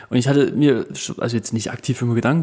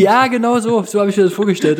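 laughing; 7 semitones higher, 4 dB louder than usual. Real, not acted. Admits naive belief, laughing.

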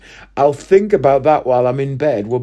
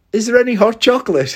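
raised, innocent voice imitating the woman; woman's innocent question; 8 semitones higher, faster than usual. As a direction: mimic her sweet, earnest little question. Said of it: "She said".

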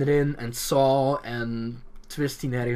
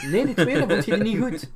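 laughing disbelief; 9 semitones higher, 6 dB louder than usual. Real, not acted. Surprised the friend disliked episode.

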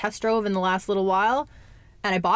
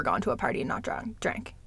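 whispering; 6 dB quieter than usual. Real, not acted. Confessing a sober party.

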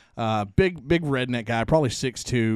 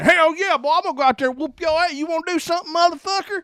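big redneck. Retold or imitated. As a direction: puff up like a corn-fed redneck picking a fight. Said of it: "big corn-fed redneck".

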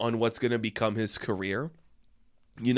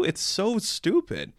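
higher, slow, softer drawn-out so stupid; exasperated drawl; 7 semitones higher, 4 dB quieter, slower than usual. Real, not acted. Reviewer mocking the bear fight, slow exasperated drawl. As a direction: groan it out in disbelief.

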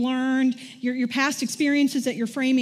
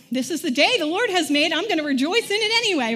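cheerful declaration; 4 semitones higher, faster than usual. Retold or imitated. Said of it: "But what we need to say is".

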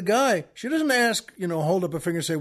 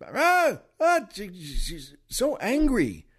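imitated angry outburst; slower than usual. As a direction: mimic an angry clerk's babble. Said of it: "louder even".

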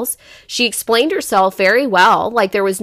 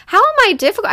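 retold indignation; 11 semitones higher, faster than usual. Mother retelling hurt question.

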